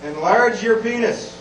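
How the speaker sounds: slow, drawn-out email pitch; mock ad pitch. Reading embarrassing work emails to the crowd, mock ad pitch. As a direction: read it out like a sales slogan. Reads out spam email subjects.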